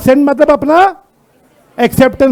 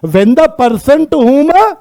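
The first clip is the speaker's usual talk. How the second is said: very drawn-out words; teacher's slow prompt to follow along; slow read-out; 3 semitones higher, much slower than usual. Shown as a demonstration. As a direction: read slowly, leaving the phrase hanging. Reading the law's wording to class.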